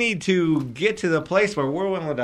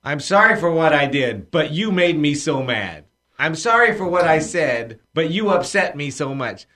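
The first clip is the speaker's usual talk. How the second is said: a mock half-apology, louder on sorry; half-hearted apology that turns into an accusation; blaming apology; 3 dB louder than usual. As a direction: apologize while pinning the blame on them. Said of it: "apologize this way".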